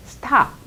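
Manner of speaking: 스탑 run together with a short "s" into "ta"; blended stop. Shown as a demonstration. Teacher showing the finished reading, 스탑 blended. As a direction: join 스탑 into one smooth word. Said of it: "이렇게 할 때 이 소리가".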